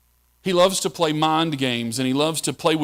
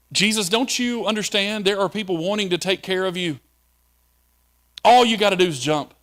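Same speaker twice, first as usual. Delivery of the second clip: higher, coaxing tempter's pitch; Satan coaxing; 5 semitones higher than usual. Retold or imitated. Preacher voicing Satan urging Jesus to jump, coaxing. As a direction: sell the leap like a sly tempter. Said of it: "emotional ploy put in by the devil".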